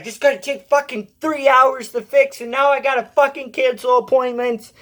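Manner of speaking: hammed-up imitation of a raging boss swearing at the broken strap; ranting boss. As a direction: mimic the boss blowing up, pitch way up. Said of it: "he's yelling at me".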